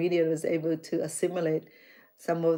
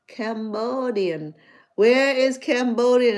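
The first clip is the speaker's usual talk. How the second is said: puzzled mock surprise; 4 semitones higher, 7 dB louder, slower than usual. Puzzled churchgoer retold.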